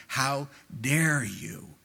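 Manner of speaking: "How dare you" slowed, leaning on "dare"; emphatic indignation. Retold or imitated. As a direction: draw out "dare" in mild mock indignation. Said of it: "it's the first powerful, emphatic word".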